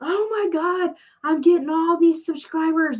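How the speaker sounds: acted, high, hyped-up gushing excitement. Retelling seeing new subscribers arrive, imitating hyped-up excitement. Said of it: "you get all hyped up like".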